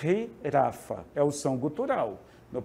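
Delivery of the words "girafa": girafa begun with a throaty h sound, slowly; guttural J. Shown as a demonstration. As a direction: say girafa with a raspy guttural start. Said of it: "o J no espanhol se pronuncia como".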